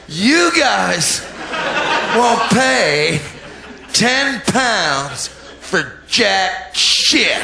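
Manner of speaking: laughing. Real, not acted. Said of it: "repeat with laugh".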